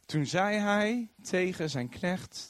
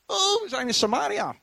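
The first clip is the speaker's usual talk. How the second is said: mock surprise; 9 semitones higher than usual. Blinded army suddenly sees where.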